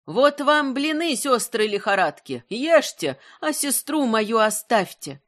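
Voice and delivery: called out into the forest, high; calling out. Acted. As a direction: call it into the thicket. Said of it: "прокричав в чащу".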